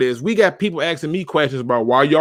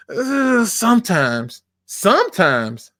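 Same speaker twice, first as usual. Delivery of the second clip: hesitant fan; 6 semitones higher, much slower than usual. Retold or imitated. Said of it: "this is exactly the response I get".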